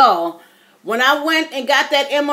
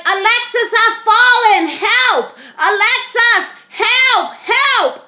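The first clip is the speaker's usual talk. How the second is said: higher and louder, a mock cry for help from the floor; retold call for help; 8 semitones higher, 5 dB louder, slower than usual. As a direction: call your daughter from the floor, playing up the panic. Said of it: "And I was calling Alexis".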